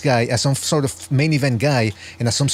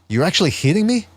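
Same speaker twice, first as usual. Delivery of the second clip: Shakur Stevenson, incredulous; 5 semitones higher than usual. Retold or imitated. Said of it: "that classic Shakur Stevenson face that he always makes".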